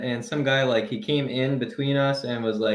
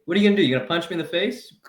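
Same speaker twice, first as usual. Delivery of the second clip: higher-pitched retold challenge; mock confrontational dare; 5 semitones higher, faster than usual. Man daring a bigger guy by the elevator, mock confrontational. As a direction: act out daring him to start something.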